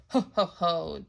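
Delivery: low mock chuckle; hammed-up pleased chuckle; chuckling. Daddy Pig chuckling as tail fits, mock. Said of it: "chuckles Daddy Pig".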